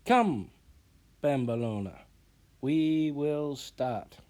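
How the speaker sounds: loud, slow summons; summoning call. Acted. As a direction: call the pupil over, then slow right down. Teacher summoning her pupil.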